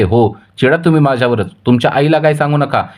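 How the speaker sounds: wife angry that the puja was held behind her back, answering her husband heatedly. Acted. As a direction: snap back at the husband, fed up. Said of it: "ती चिडते आणि म्हणते".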